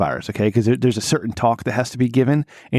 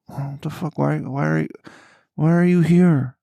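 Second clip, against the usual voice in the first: incredulous; 6 semitones higher than usual. Retold or imitated. Coworker with symptoms came to work.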